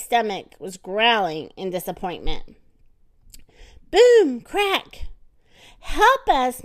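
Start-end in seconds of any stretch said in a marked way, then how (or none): 3.9-5.1 loud, high sound words; dramatic boom. A narrator's reading. Narrator telling the floor cracking again, loud boom. 5.8-6.6 calling out. Acted. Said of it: "Miss Watson called".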